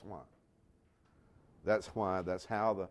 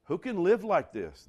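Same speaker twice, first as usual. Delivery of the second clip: higher, louder despairing cry; anguished cry; 6 semitones higher, 6 dB louder than usual. Retold or imitated. Preacher voicing overwhelmed Christians, a loud anguished cry. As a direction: cry out from the end of your rope. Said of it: "they say".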